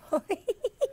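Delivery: high little giggle; a light, high giggle like a girl. Acted. Jessica giggling at the stomach sounds. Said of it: "Jessica started to giggle".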